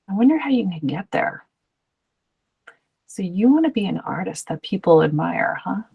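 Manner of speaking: calm, even, curious question; understated neutral coaching voice. Shown as a demonstration. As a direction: ask it evenly with no push. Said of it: "like, neutral tone".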